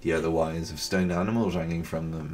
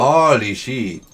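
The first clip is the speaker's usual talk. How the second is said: loud startled curse; shocked, slow outburst; scared horror game streamer; 5 semitones higher, 8 dB louder, slower than usual. Real, not acted.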